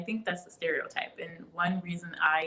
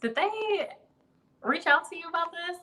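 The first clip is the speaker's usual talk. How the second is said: much higher, a squeaky mock of her friend asking; high mock quoting voice; 11 semitones higher than usual. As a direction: toss the question up high, teasing. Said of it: "we we're just like".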